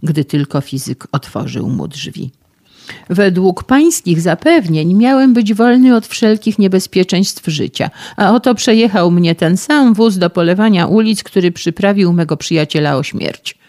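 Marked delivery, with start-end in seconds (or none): 3.1-13.6 loud, high, aggrieved protest; indignant complaint. Acted. Run-over young man reproaches the physicist, loud and indignant. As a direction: hurl the accusation at him.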